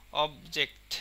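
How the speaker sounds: অবজেক্ট with অব strongly stressed; stress on first syllable. Shown as a demonstration. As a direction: hit অব in অবজেক্ট, let জেক্ট go. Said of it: "অবের ওপরে প্রচুর stress পড়তেছে". (অবজেক্ট-এ অব-এর উপর জোর)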